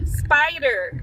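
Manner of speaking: Americanised spider, rhotic r; American accent. Shown as a demonstration. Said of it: "say spider in an American accent".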